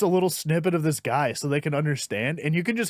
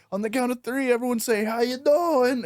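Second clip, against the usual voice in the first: higher, lightly hammed call to the crowd; crowd prompt; 7 semitones higher than usual. Comic prompting the audience to repeat his catchphrase. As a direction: lead the crowd in a chant. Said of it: "he goes".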